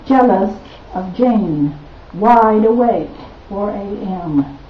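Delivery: measured poem recital with weighted pauses; poetry reading. Acted. Poet reading her own verse to an audience, measured recital. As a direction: read it slowly as a poem, line by line.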